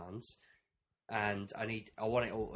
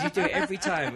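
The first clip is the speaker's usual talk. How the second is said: laughing; 6 semitones higher, 8 dB louder than usual. Retold or imitated. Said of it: "It says".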